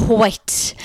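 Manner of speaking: "white" as an aspirated "hwite". Shown as a demonstration. Co-host spelling out the joke, "white" as "hwite". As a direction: start "white" with an audible H puff. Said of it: "white with an H".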